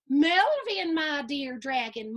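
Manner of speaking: mom voice. Acted. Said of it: "Mom says".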